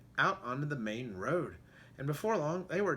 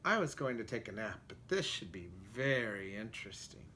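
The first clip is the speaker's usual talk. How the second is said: cat voice; 4 semitones lower, 4 dB quieter than usual. Acted. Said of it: "what she thought was".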